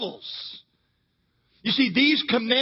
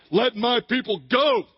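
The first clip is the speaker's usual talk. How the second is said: studly Moses voice; 3 semitones higher than usual. Retold or imitated. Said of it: "it did not sound like".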